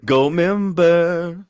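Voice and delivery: film character impression. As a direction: stretch it out slowly in a put-on voice. Quoting Austin Powers film character.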